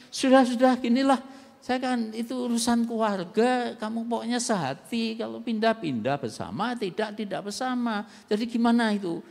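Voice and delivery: annoyed, trying to end the call; fed-up pastor. Retold or imitated. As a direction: pastor losing patience with a caller who keeps repeating herself. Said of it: "saya bilang".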